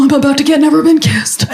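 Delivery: excited. Retold or imitated. Excited inner thought on kiss.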